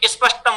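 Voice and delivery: स्पष्टम said as ispashtam; is for initial s. Shown as a demonstration. Teacher showing Rajasthani fault, स्पष्टम as ispashtam. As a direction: put an 'i' before the s of स्पष्टम. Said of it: "या इस".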